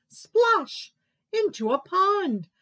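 high, loud splash sound word; splashy storytelling. A narrator's reading. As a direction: make the splash pop.

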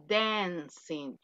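Spanish-style E in the first syllable of "dancing"; pronounced with E. Shown as a demonstration. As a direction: model "dancing" as DEN-sing. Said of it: "es con E".

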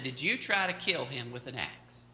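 calmly. Retold or imitated. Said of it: "I just said calmly again".

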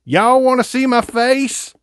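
squeaky falsetto teasing; high goofy voice. Pretend. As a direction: pitch way up, playful.

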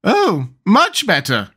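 high, drawn-out exclamation; delighted cry. A narrator's reading. Queen replying about her finger, crying out. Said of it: "cried the Queen".

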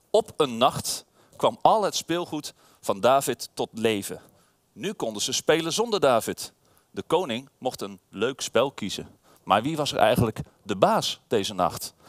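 measured storybook reading with pauses; storyteller for little listeners; reading to children. A narrator's reading. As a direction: read it out like a bedtime story. Reads back cover to children.

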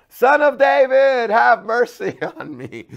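very loud, high, slow shout; full-voiced desperate shout for mercy. A narrator's reading. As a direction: scream it over the crowd. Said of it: "he only shouted louder".

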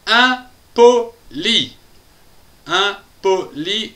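"impoli" in three separated beats; syllable by syllable. Shown as a demonstration. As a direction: break "impoli" into slow, distinct syllables. Word split into syllables.

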